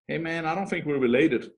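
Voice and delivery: put-on Danish accent. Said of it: "my best Danish accent".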